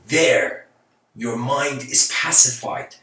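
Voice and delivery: There stretched out slow and firm, then settled; a master's calm pronouncement, slow and deliberate; calm, slow and weighty. Shown as a demonstration. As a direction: land each word slowly like a gentle verdict. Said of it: "He says it".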